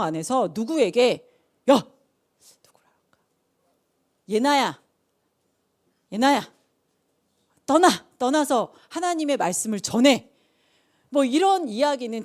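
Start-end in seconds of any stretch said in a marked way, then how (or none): 1.7-3.2 loud, sudden call. Acted. Acted divine calling to someone. 4.3-10.3 loud, spaced-out summons; acted voice of command; commanding call.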